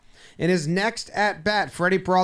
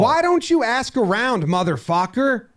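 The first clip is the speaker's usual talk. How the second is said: angry rant; 4 semitones higher, 3 dB louder than usual. Acted. Manager cursing out umpire.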